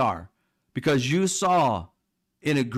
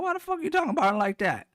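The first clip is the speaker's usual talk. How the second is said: outraged; 11 semitones higher, faster than usual. Retold or imitated. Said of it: "I'm like".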